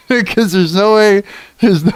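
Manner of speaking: cracking up mid-sentence; real laughing fit. Real, not acted. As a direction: break into helpless laughter while talking. Cracking up, cannot finish sentence.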